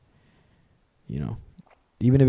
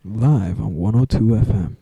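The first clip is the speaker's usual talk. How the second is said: radio DJ voice; 4 dB louder, slower than usual. Pretend. Mock radio DJ intro.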